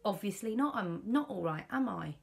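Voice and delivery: retold snap. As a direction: bite back at him, fed up. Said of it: "That's how I said it".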